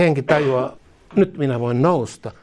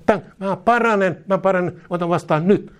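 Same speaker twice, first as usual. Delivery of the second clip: believer's confession; 4 semitones higher than usual. Retold or imitated. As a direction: declare healing as it arrives. Believer receives healing, voiced.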